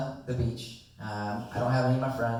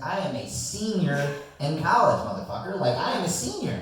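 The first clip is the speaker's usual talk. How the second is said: indignant shout; 4 semitones higher than usual. Retold or imitated. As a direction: insist you're a senior, offended. Drunk indignant retort to cop.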